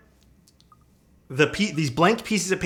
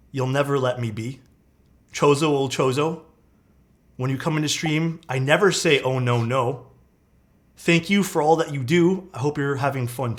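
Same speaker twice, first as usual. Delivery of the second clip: reciting a homemade rhyming poem, line by line; poem recital. Shown as a demonstration. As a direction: recite it in verse with pauses between lines. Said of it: "I'll recite to you guys the Chozo poem".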